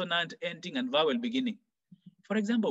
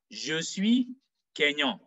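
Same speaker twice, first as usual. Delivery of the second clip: "suis" raised, then "Kenyan" dropping to the end; falling intonation; slower than usual. Shown as a demonstration. Teacher models a French statement, falling on "Kenyan". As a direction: let "Kenyan" fall like a full stop. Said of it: "There's a falling intonation".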